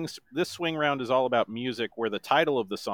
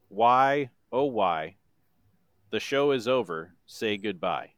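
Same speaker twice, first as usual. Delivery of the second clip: monotone voice. Shown as a demonstration. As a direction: speak the song, don't sing it. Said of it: "in my best monotone voice".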